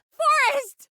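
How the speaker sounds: high loud yell of a name; exasperated shout. Acted. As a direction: yell his name, fed up. Radio host yelling at co-host.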